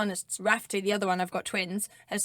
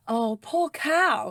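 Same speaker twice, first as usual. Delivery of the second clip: drawn-out, higher pitched pitying coo; exaggerated sympathy; sympathetic; 6 semitones higher, 3 dB louder, much slower than usual. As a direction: say it slowly, full of mock pity. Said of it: "if you were like".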